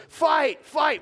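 high, loud schoolbus shout; shouting fight. Retold or imitated. Kid on the bus alerting everyone, shouting. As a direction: call it out like a kid spotting a brawl. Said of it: "somebody on the bus goes".

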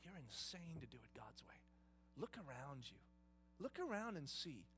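a touch of a sneering tempter, hushed; sly whisper. Retold or imitated. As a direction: hiss the doubt into his ear softly. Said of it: "the enemy of God was whispering".

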